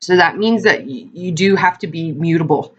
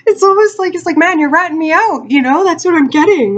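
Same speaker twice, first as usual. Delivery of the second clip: high, louder, laughing delivery; amused outburst; 10 semitones higher, 4 dB louder than usual. Real, not acted. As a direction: say it cracking up at your own joke. Breaking up over the card's joke.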